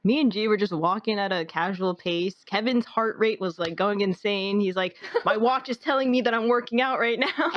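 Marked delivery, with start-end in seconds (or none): 5.2-7.5 higher voice breaking into laughter; laughing retelling. Retold or imitated. Teasing friend's watch story to the group, laughing. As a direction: quote it while starting to laugh. Quoting friend's complaint, cracking up.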